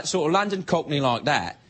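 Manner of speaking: lightly put-on London Cockney; a hint of Cockney accent. Shown as a demonstration. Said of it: "Australian is just like a London Cockney accent".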